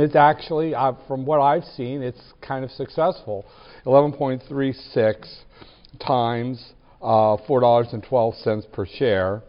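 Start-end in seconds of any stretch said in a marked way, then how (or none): 3.9-9.4 talking while chewing gum. Real, not acted. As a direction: say it around a wad of gum. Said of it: "I try to talk and chew gum at the same time".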